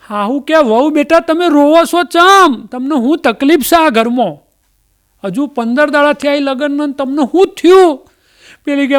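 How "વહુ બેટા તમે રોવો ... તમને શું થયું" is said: higher, coaxing mother-in-law voice; a fussing old mother-in-law, high pitched. Retold or imitated. Mother-in-law coaxing the weeping bride, higher voice.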